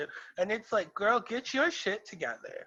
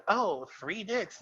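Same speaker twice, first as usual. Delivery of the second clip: mock quote; 2 semitones higher, 3 dB quieter, slower than usual. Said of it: "you're literally saying that".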